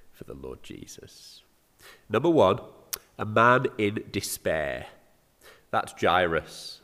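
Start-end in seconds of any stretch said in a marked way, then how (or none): 6.0-6.8 "Jairus" as JY-rus, two syllables; English pronunciation. Shown as a demonstration. Preacher names the man in despair, English pronunciation. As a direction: say "Jairus" with first syllable rhyming with "eye". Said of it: "forgive my, uh, English pronunciation".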